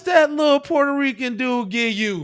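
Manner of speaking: high, slow, loud and half-crying; cry-laugh the question out loud; laughing exasperated shout. Real, not acted. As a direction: bellow it in disbelief. Exasperated at clip.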